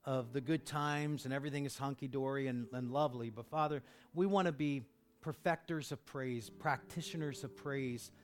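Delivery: earnest pastoral prayer; closing prayer. Acted. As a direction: pray sincerely over the church. Prayer over music.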